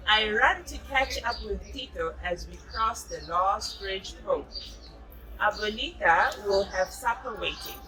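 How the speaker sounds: put-on reading a picture book aloud to a child; storybook narration, gently paced; story reading. A narrator's reading. Mother reading a jungle story to her child.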